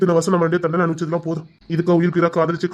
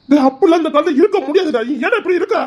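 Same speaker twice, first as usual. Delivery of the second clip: higher, louder laughing disbelief; exasperated laugh; 9 semitones higher, 4 dB louder than usual. Acted. Brother scoffing at his stubbornness, laughing. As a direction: laugh it off in frustration.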